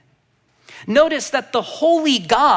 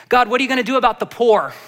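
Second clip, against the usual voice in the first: fast, louder demand at God; demanding question; 3 semitones higher, 5 dB louder, faster than usual. Retold or imitated. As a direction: press God with a quick complaint. Voicing believers' demand.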